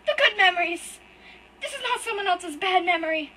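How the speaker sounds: high, loud, tearful and breaking; sobbing out betrayal at full force; crying outburst. Acted. Hurt boy screams at his brother through tears, loud and high.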